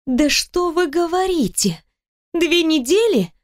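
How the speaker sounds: high, slow, sarcastic mock surprise; mock disbelief. Heroine mocking his two weeks, high sarcastic disbelief. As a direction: needle him with fake amazement.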